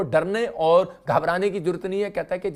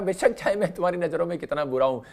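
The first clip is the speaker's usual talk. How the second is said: tender voice of God; 2 semitones lower than usual. Acted. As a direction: speak to a child gently, as God. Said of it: "परमेश्वर कह रहा".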